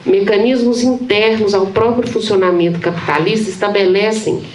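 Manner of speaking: measured academic read-aloud, phrase by phrase; formal reading aloud. Acted. Professor presenting titled excerpts on the common, formal reading aloud. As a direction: read a dense theory text evenly to an audience.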